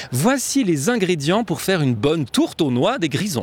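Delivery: reading the test sentence slowly; slow dictation-style reading; slow careful read. Shown as a demonstration. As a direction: read it out slowly and clearly, word by word. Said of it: "alors la phrase, donc".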